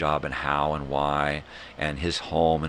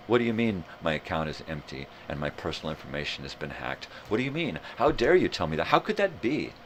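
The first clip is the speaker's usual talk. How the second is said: mock indignation. Hacked customer protesting an empty account, mock indignant. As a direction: play indignant disbelief, voice rising.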